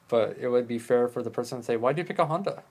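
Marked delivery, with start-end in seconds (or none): 1.8-2.6 defensive. Retold or imitated. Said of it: "it's a defensive tone of voice".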